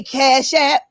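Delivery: calling for a response from the congregation; preacher calling out to the church. Pretend. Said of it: "So I'm gonna do my church voice".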